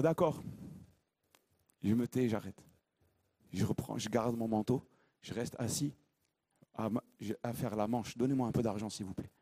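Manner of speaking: low, soft giving-up voice; resigned beggar. Acted. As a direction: let him fold and beg quietly. Il aurait pu dire.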